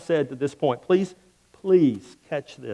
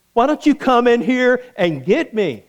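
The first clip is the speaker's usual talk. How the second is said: light teasing challenge; cheeky dare; 5 semitones higher than usual. Retold or imitated. Preacher dares the king from the fire, light taunt. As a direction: dare him to come in. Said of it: "my response to him would have been".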